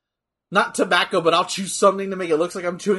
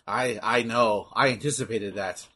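Jacques; 7 semitones lower, 6 dB quieter than usual. Retold or imitated. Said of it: "Fucking Jacques was like".

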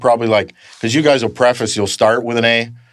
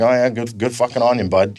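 condescending; 3 semitones higher than usual. Retold or imitated. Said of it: "It's condescending".

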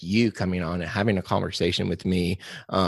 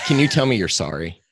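louder, laughing through the question; laughing request; 6 dB louder than usual. Real, not acted. Host teasing his Canadian guest for a favor, laughing.

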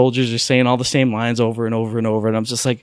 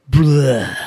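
blurted "bleh" noise; spewing "bleh". Retold or imitated. Player describes cards laid out before him, mock spew noise. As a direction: imitate everything spilling out at once. Mimics cards being dumped out.

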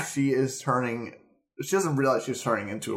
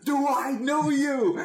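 much higher, hammed-up squeaky voice; mock Nadia; 13 semitones higher than usual. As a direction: squeak out the question in a cartoonish voice. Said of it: "She goes".

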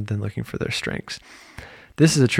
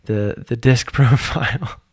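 slower, laughing retake of disc profile; laughing correction; slower than usual. Real, not acted. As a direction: laugh while fixing the slip. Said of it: "Whoops, stuttered a little bit there".

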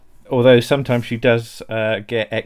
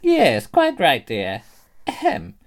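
high, swooping ladylike announcement; put-on high lady voice; genteel old-dear character; 10 semitones higher, slower than usual. In-character cosplay opening sketch.

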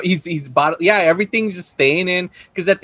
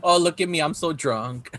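low, softer mock boast; mock drunk; 4 semitones lower, 7 dB quieter than usual. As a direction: mockingly play the silly drunk, trailing low. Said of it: "is that what you do?".

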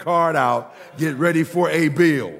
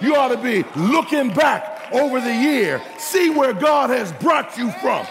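full-force preaching climax; 7 semitones higher than usual. Real, not acted. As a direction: whoop it up, driving the church toward praise. Sermon climbs to full preaching.

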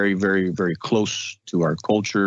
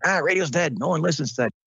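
dismissive doubters; 7 semitones higher than usual. Retold or imitated. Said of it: "I remember people saying".

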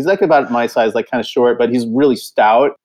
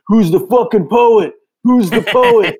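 mock yell, pitched up and dragged slowly; retold yelling; 7 semitones higher, slower than usual. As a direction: call out the question like a drunk heckler, half-acted. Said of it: "this skinhead starts yelling".

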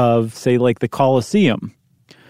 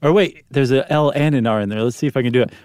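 normal talking voice

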